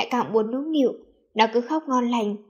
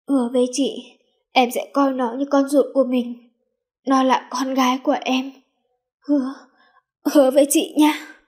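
halting, louder plea with long pauses; dying plea; 2 semitones higher, 5 dB louder than usual. A narrator's reading. Dying sister entrusting her baby to him, pleading. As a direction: beg for a promise through pain.

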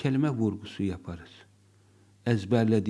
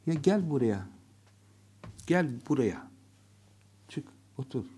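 joking. Shown as a demonstration. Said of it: "şakayla söylersiniz".

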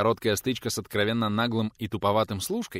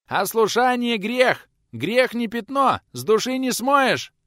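put-on much higher, louder, slow shrieking boy; squeaky yell; 9 dB louder, slower than usual. A narrator's reading. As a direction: shout it from the yard. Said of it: "продолжал орать юнец".

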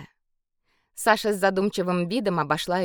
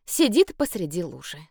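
ordinary delivery, nothing marked

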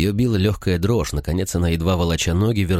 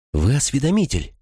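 exclaimed; 8 semitones higher than usual. A narrator's reading. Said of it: "воскликнула Вин".

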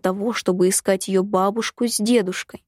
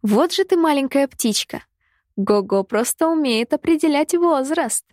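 gleeful; 6 semitones higher than usual. A narrator's reading. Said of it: "Девушка радостно подхватила".

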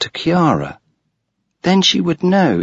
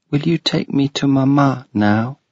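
put-on little girl; 5 semitones higher than usual. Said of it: "she asked".

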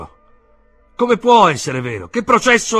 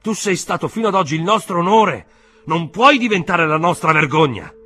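high, loud, impassioned pleading; agitated exclaiming; 11 semitones higher, 10 dB louder than usual. A narrator's reading. Uncle begging Joseph to spare the family's name, exclaiming. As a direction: plead at the top of your voice. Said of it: "esclamò lo zio".

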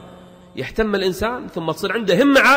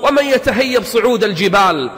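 raised, slow declaimed verse; poetry recitation; 4 semitones higher, 4 dB louder, slower than usual. Acted. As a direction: declaim the verse, drawing out the line endings.

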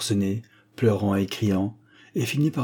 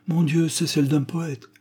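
higher-pitched indulgent mother with a smile; amusée, en souriant; 7 semitones higher than usual. A narrator's reading. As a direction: say it lightly through a smile. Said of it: "fit la mère en souriant". (amusé, avec un sourire dans la voix)

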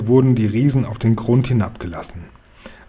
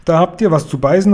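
calling down; 5 semitones higher than usual. Acted. Guri calls down to the giants in the pit, a mocking shout. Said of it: "rief er hinterher".

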